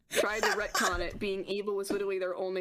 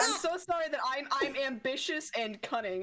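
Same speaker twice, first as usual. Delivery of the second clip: sarcastic apology. Acted. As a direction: pile on the fake sorry, starting pitched up. Mock apology for Slytherin traits.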